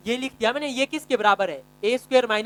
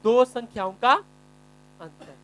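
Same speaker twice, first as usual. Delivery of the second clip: slow dictation; much slower than usual. Shown as a demonstration. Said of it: "ये इसका मतलब क्या हुआ?".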